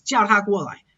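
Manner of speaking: 它 after the vowel of 叫 said with a weak T; weakened ta. Shown as a demonstration. Teacher demonstrating weak pronouns, weakened ta in 叫它. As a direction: connect 叫 smoothly into a softened 它. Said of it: "so it weakens".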